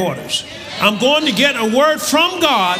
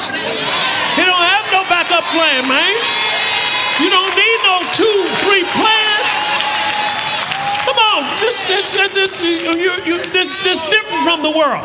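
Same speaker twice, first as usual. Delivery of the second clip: raised-pitch church preaching; fervent preaching; 7 semitones higher than usual. Real, not acted. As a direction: press it home to the congregation. Preaches excitedly to congregation.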